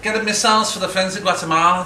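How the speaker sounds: mildly mock a political meeting speech; earnest militant activist. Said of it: "They'd be talking about this stuff like this".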